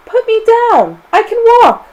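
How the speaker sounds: very high, loud yell; high-pitched child's scream of protest. A narrator's reading. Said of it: "screamed James".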